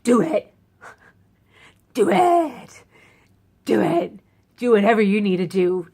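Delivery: loud, eager urging; loud plea to the doctors to just do it. Retold or imitated. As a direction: beg them to go ahead. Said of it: "And I'm like".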